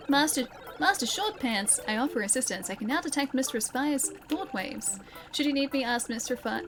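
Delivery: lightly voiced eager robot helper; a hint of a dutiful servant. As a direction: offer service with a slight formal lilt. Reads game robot's lines.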